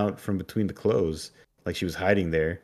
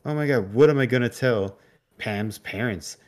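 panicked; 3 semitones higher than usual. Retold or imitated. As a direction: fret aloud in a mock panic. Amy panicking after losing Pam.

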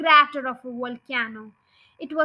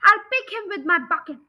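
a higher, louder threat; shouted; 4 semitones higher, 5 dB louder, faster than usual. Acted. Farmer shouting a threat about the fox, loud. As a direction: shout it with glee over the engine. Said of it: "shouted Bounce".

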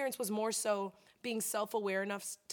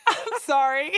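mock tearful apology; 3 semitones higher, 10 dB louder, slower than usual. Client cleans up then apologizes to therapist, mock crying. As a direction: act out a failed recovery, half laughing. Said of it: "not gonna see me crying".

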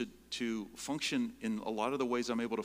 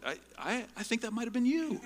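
laughing sheepishly; 12 semitones higher than usual. Retold or imitated. Speaker answering the lady, laughing and sheepish. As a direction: laugh it out, half embarrassed.

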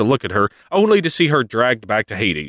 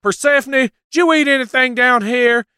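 much higher, mock urgent voice; anxious mother; 14 semitones higher than usual. Demeter questioning Persephone in a hammed-up high mother voice. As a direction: quiz her daughter fast. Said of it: "she's like".

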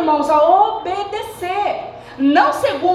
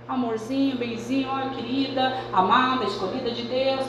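softer, tender cooing like a loving father; loving sweet talk; 7 dB quieter than usual. Retold or imitated. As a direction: coax gently with pet names, much softer. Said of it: "Deus prova até só no amor".

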